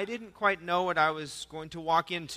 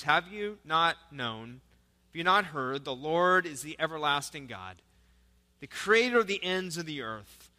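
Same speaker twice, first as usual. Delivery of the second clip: solemn reading of the verse; scripture reading. Acted. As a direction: read it out like scripture from the pulpit. Reads Isaiah aloud.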